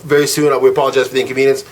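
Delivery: smooth it over politely; calm apologetic agent. Retold or imitated. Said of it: "the other girl's very calm".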